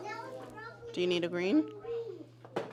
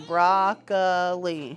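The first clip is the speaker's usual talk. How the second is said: slow syllable count; 5 semitones lower, much slower than usual. Shown as a demonstration. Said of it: "Count 'em again".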